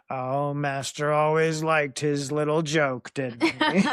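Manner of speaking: slow, drawn-out house-elf croon; lightly voiced house elf, dragging the words; Creature voice. Host voicing house elf needling his master, slow creature voice. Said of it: "that's gonna be my Creature voice".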